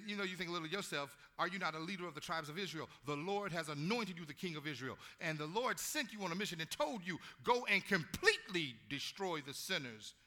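preacher voicing Samuel rebuking Saul; preaching the rebuke. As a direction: drive Samuel's words home.

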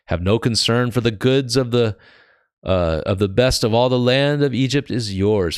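emphatic Bible reading, firm start; scripture reading. Acted. Preacher reading Pharaoh's order to Joseph, emphatic scripture reading. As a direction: read out a royal order.

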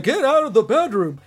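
acted outburst, loud and high; mock scolding shout. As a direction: bark it like a cartoon scolding. Acted scolding of intruding Luann.

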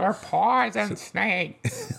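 very slow hick voice. Retold or imitated. Co-host quotes the hick.

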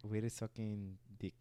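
slow, low, soft stab at "Wir suchen dich"; "Wir suchen dich" misread slowly by an English speaker; misread German. Shown as a demonstration. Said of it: "how would you pronounce this".

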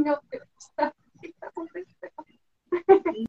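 hushed, slow mock panic; mock nervous. Guest showing how she freezes when interviewed, nervous. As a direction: quietly act out being lost with nerves. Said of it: "eu fico assim".

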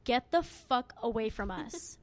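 slow, deliberate mock warning; dead serious, imitated. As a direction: imitate a drunk friend telling someone off, slowly. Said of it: "she goes, so serious".

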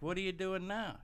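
high-pitched mock bafflement; baffled customer. Client to Hurricane Bertha in a joke, high baffled question. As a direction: ask it high, in comic disbelief.

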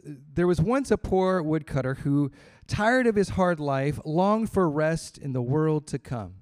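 measured storybook reading; story reading. Acted. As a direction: read the old tale to the congregation. Reads the tale aloud.

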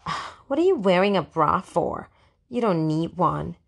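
put-on lightly snooty mean girl; a touch of sneering superiority. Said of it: "in her snootiest voice".

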